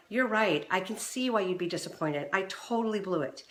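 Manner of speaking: soft, sincere apology; calm responsive apology. Shown as a demonstration. Wife apologizes calmly to husband, soft and sincere. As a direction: own it gently. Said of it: "that calm, responsive".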